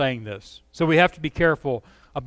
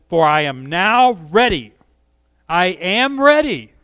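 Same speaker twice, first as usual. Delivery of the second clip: excited Paul; 2 semitones higher, 5 dB louder than usual. Retold or imitated. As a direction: savor the readiness. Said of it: "I hear excitement".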